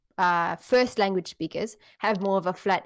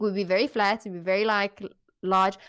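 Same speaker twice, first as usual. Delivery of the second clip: South African accent. Shown as a demonstration. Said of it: "South African accent".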